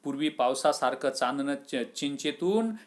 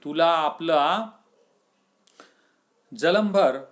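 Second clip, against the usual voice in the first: chiding friend; 2 semitones higher, 3 dB louder than usual. Acted. Friend mocking the stubborn farmer, loud scolding. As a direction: scold him for slaving all his life. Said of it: "असं कोण म्हणतो? आबू".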